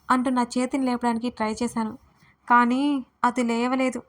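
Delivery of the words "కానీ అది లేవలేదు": ordinary delivery, nothing marked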